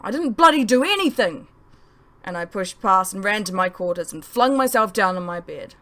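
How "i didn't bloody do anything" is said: loud high furious protest; angry yell. Acted. Son shouting at accusing parents, loud furious protest. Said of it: "I yelled at them".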